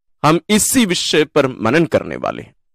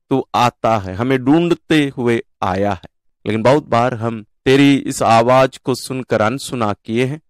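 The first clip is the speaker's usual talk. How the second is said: devout prayer in measured phrases; spoken prayer; 3 semitones lower than usual. Real, not acted. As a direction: address God directly, phrase by phrase.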